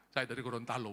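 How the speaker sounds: ordinary delivery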